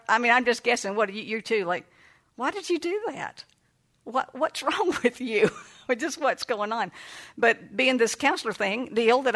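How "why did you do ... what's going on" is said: exasperated mother. Retold or imitated. Imagined mother scolding child in car.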